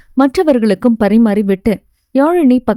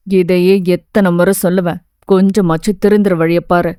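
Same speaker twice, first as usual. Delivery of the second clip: a lightly lowered, stern teacher's voice; stern teacher scolding; 4 semitones lower than usual. Acted. Teacher scolding a student who misbehaved, lightly lowered stern voice.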